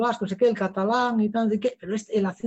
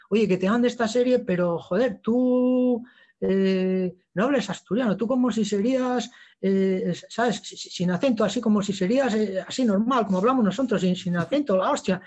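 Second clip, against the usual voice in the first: Basque agent; 2 semitones higher than usual. Retold or imitated. Basque agent telling an Asturian actor to drop the accent, imitated Basque accent. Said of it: "mi repre es vasco".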